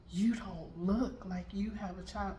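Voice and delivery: slow, drawn-out disbelief; retold disbelief. Stranger doubting she is a mother, slow disbelief. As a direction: stretch it out as the astonished stranger.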